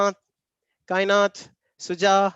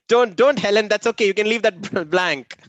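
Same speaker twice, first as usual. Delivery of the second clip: laughing; 3 semitones higher, 4 dB louder than usual. Real, not acted. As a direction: reassure her through laughter. Laughing at the feedback request.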